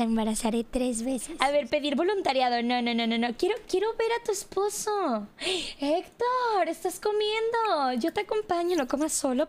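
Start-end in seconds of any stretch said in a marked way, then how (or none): 3.4-9.5 playfully eager, stretched-out greeting; gushing greeting. Acted. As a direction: fuss over him in play. Greeting neighbour's husband in game.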